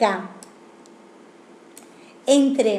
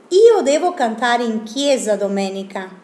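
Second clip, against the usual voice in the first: Io devo cantare in chiesa domenica read in Italian; Italian sentence. Shown as a demonstration. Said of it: "Por ejemplo". (frase en italiano leída como ejemplo)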